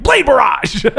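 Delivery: high laughing callout of the move; calling out ability. Retold or imitated. Gamer calling out moves to teammates, high laughing callout. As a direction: shout the ability name while laughing. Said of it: "'cause I'm always like".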